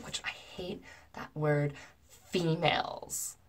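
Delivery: hushed, drawn-out disgust; real distaste. Real, not acted. Breaking off his text at a hated word, disgusted. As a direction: drop to a slow near-whisper, loathing the word. Recoils from a word she hates.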